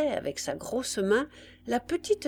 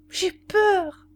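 high, louder wail of fear; frightened child's cry; 11 semitones higher, 6 dB louder than usual. A narrator's reading. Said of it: "les deux enfants se réveillèrent et crièrent". (cri d'enfant apeuré)

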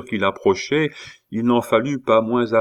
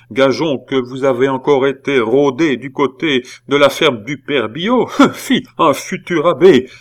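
higher, louder suspicious scolding; scandalised accusing aunt; 6 semitones higher, 6 dB louder than usual. A narrator's reading. Aunt suspecting her nephew of loitering at the farm, accusing. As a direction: build suspicion into an outraged jeer.

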